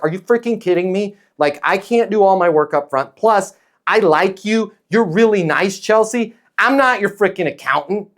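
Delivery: hammed-up venting at a client who won't pay; frustrated rant. Shown as a demonstration. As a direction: play the fed-up consultant who snaps back. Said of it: "you get really frustrated and you wanna talk like that".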